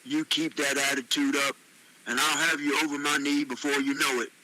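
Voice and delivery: understated stern ultimatum. Acted. Ron is tired of Tony's attitude, stern warning. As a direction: give a firm, mildly stern warning. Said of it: "Ron said in a stern voice".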